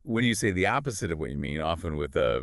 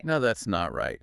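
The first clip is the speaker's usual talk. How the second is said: NOT made strong, higher-pitched line; stress on NOT; 4 semitones higher than usual. Shown as a demonstration. Learner echoing the teacher, stress on NOT. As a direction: hit "not" as a firm denial. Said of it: "Emphasize not".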